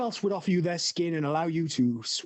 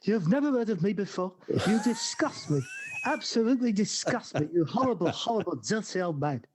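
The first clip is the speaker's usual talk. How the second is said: raised, disgusted Cockney scolding; Harry H. Corbett; 2 semitones higher than usual. Retold or imitated. Impression of the son scolding his old father. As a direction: spit out disgust like an exasperated son. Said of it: "very good impressions the speaker's done there".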